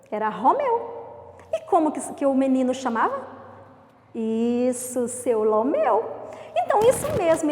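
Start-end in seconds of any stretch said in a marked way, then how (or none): 5.1-6.0 Lomeu with an L in place of the R; R changed to L. Shown as a demonstration. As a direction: say Lomeu, swapping R for L. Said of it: "ele troca a letra R pela letra L".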